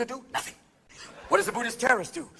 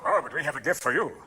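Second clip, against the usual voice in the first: calm native reply; 8 semitones lower, 5 dB quieter than usual. Acted. Natives handing tobacco to settlers, low and calm. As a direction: answer with quiet menace. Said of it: "the Indians go".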